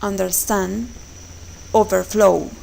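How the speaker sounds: "understand", "overflow", second part strong; stress on second part. Shown as a demonstration. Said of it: "on the second part".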